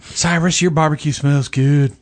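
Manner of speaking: put-on Southern accent. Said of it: "trying to be Southern and stupid".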